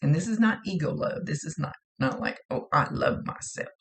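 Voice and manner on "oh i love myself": egotistical. Retold or imitated. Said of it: "in an egotistical way".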